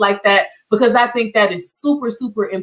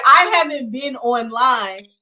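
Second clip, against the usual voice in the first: put-on amazed child; 3 semitones higher, slower than usual. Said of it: "like, my, my teacher is".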